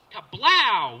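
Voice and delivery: loud, booming gun noise; big drawn-out cartoon blast; mock gunshot yell. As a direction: shout the sound effect like a gunshot. Robber imitating a gunshot.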